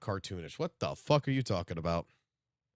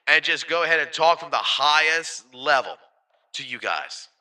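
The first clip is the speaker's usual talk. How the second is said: louder high pitch; 4 semitones higher, 10 dB louder than usual. Shown as a demonstration. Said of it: "get up to my high pitch".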